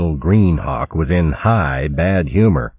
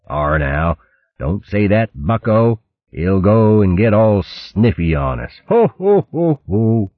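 mock-soothing pirate who bursts into laughter; chortling crewman; 4 semitones higher than usual. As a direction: tease then guffaw. Crew mock the captain.

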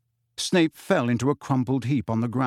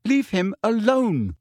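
higher, slow and insistent order; insistent demand; 8 semitones higher than usual. A narrator's reading. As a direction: spell out the order, indignant. Lily's repeated demand to James.

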